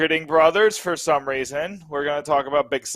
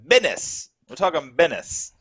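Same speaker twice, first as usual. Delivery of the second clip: North Jersey Italian slang; 2 semitones higher than usual. Retold or imitated. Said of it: "that North Jersey Italian slang".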